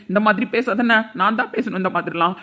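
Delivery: ordinary talk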